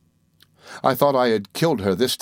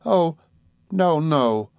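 higher-pitched cry of protest; 6 semitones higher, much slower than usual. A narrator's reading. Dora protests to her sweetheart, crying out in a higher voice. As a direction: cry out lightly in a girlish character voice. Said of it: "cried Dora".

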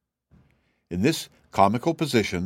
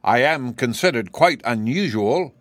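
proud; 3 semitones higher, 3 dB louder than usual. Acted. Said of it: "with a tone of pride".

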